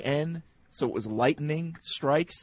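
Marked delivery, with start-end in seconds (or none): 1.1-1.8 "lightning" said as three syllables, light-en-ing; misspelled pronunciation. Shown as a demonstration. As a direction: sound out the extra E in "lightning". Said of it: "we spell lightning with E".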